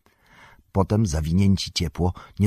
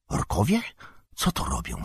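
surprised; 6 semitones lower, 5 dB quieter than usual. A narrator's reading. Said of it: "zdumiał się Frodo".

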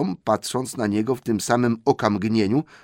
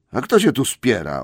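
loud, higher indignant troll retort; 4 semitones higher, 5 dB louder than usual. Acted. William protests loudly at Bert's accusation. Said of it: "oburzył się William".

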